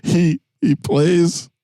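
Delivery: slow, high mock Connery drawl; Sean Connery impression. Friend mocks actor, slow put-on voice. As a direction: stretch it out like a bad Connery.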